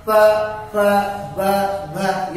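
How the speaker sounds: प, प, ब, भ each said alone with the lips pressed; lip letter demo. Shown as a demonstration. Teacher demonstrating lip letters प, प, ब, भ. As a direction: sound out प, प, ब, भ one by one. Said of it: "उसके बाद".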